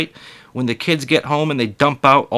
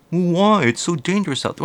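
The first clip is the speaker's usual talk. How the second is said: worried parent voice; 6 semitones higher than usual. Retold or imitated.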